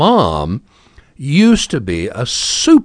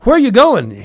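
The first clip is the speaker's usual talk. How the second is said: loud, much higher shouted question; hollering; 13 semitones higher, 6 dB louder than usual. Retold or imitated. Daughter hollering at the bus driver, loud and high. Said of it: "She's hollering at the driver".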